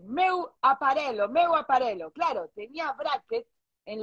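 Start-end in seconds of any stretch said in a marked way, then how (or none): 0.0-2.1 slow, drawn-out Brazilian Portuguese lament; mock Portuguese.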